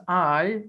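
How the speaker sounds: I said as the stressed syllable. Shown as a demonstration. Teacher explaining pronunciation of a metrical foot, stress on I. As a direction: lean on I with extra pressure. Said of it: "we give a pressure".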